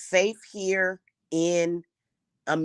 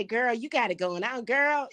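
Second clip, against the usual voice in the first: higher, sing-song fake flattery; mocking social media gushing; 7 semitones higher, 4 dB quieter than usual. Mocking people who flatter her online, gushing sing-song voice. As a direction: sneer through a gushing girl voice. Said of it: "y'all will come to social media and say".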